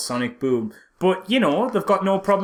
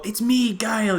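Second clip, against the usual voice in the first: mock Dalsim; 7 semitones higher than usual. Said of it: "he does the whole".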